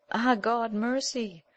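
high, slow cry for mercy; anguished plea. Acted. Queen at the king's feet begging mercy, high and slow. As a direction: plead desperately, drawing out each word.

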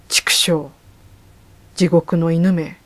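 slow, loud growled curse; growling shout. Acted. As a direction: snarl it at the dog. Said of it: "うなるように怒鳴りながら".

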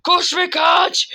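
stretched, slow shout of run; slow hype shout; slow shouted command. Real, not acted. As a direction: yell it out slowly, hyped. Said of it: "repeat with shout".

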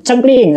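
playful button click; mock click sound. Shown as a demonstration. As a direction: voice the remote button going click. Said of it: "lo tekan ini".

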